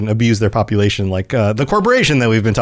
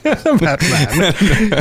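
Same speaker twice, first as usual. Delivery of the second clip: laughing mimicry; 4 semitones higher than usual. Laughingly echoes the villain voice.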